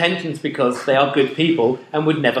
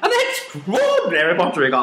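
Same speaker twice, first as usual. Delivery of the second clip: put-on crazy boy voice. Shown as a demonstration. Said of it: "this is my crazy boy voice".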